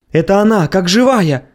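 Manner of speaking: high excited cry; exclaiming. Acted. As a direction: cry out in joy. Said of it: "воскликнул хор рабов".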